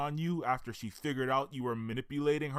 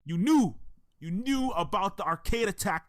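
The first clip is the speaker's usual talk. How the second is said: angry accusation; 3 semitones higher than usual. Acted. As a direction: throw the betrayal back at her. Carl confronts betrayer.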